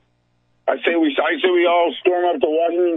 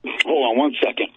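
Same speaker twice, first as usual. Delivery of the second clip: crackly cordless phone. Real, not acted. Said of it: "fading in and out like crazy".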